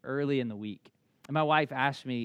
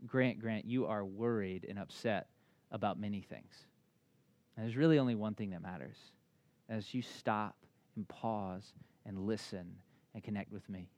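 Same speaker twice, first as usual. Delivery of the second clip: soft, lower, gentle voice; a mild, tender hint of God's voice; God speaking to Grant; 3 semitones lower, 4 dB quieter than usual. God gently calling Grant to pause, softly and low. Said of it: "I know he is to me".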